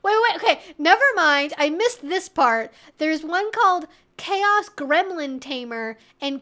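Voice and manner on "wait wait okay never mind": ordinary talk, nothing marked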